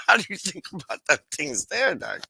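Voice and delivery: playful mock voice, lightly done; teasing put-on voice. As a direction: ham up the cheeky question to Doc.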